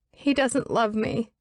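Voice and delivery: high pleading female voice; distraught young woman. Acted. Elizabeth pleads with the absent Pike, high and distraught. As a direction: beg an unseen friend for help.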